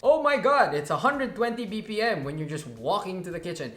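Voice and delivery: high, loud, shrill-sounding alarm as the watch; mock panicked watch. Reviewer voicing the watch's panicky heart rate alert. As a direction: squeal it like a gadget freaking out.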